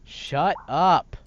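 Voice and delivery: loud snapping shut up; angry shout. Acted. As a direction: bark it out annoyed. Son snaps at mother.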